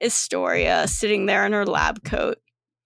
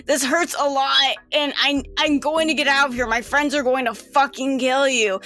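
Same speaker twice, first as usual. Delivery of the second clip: higher-pitched pleading in pain; plead, then threaten, pitched up a little; Data; 4 semitones higher than usual. Acted. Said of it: "what's Data's voice?".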